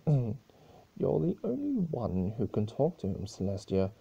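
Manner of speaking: lightly voiced mocking chaos spirit; Discord teasing. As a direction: tease her with fake sweetness. Discord urges Celestia.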